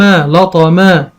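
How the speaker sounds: لطما stretched out slowly in one go; slow whole-word reading. Shown as a demonstration. Teacher reading the word whole for a child, slowly. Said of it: "عندي مثلًا أقول".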